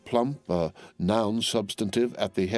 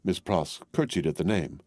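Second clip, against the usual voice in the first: usual speaking voice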